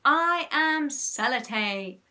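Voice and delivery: slow commanding demonstration; hypnotist's prompt. A narrator's reading. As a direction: pronounce it grandly for a subject to repeat. Henry gives line to repeat.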